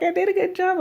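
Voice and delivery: high, little put-on voice; imitated proud helper. Helper to patient after giving the shot, proud mimicry. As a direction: pipe it up high, mimicking her self-praise. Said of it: "And she's like".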